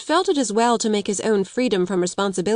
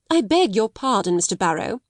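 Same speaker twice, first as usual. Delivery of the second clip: stiffly; 2 semitones higher than usual. Acted. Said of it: "she said stiffly".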